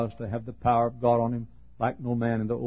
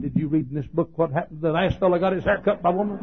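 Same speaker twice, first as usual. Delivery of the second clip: wry comeback; 6 semitones higher, faster than usual. Retold or imitated. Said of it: "I said".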